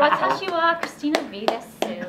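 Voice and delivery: put-on bubbly valley girl Japanese; ditzy Valley Girl, speaking Japanese. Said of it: "speak Japanese in a valley voice".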